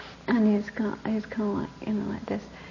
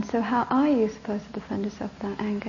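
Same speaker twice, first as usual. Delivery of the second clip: quieter, steady repeat; softer repeat; 7 dB quieter than usual. Retold or imitated. Teacher asks the boy again, softer. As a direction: ask it again more softly. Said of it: "and then I said again".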